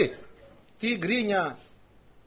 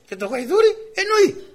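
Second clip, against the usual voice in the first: higher and louder, hammering the point; raised preacher's exclamation; emphatic exclamation; 13 semitones higher, 6 dB louder than usual. Real, not acted. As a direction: cry out that the donkey understands.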